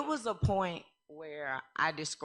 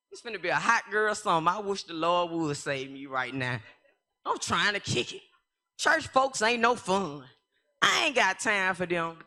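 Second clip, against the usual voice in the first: put-on sassy young self; 3 dB louder than usual. Voicing her younger party self.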